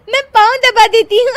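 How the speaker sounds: high, laughing offer. Acted. Daughter-in-law to mother-in-law, high laughing offer. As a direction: speak high through giggles.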